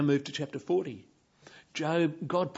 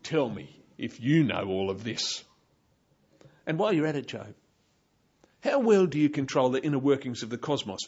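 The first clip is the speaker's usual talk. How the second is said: sarcastic rebuke; 3 dB louder than usual. Pretend. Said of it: "full of sarcasm and rebuke".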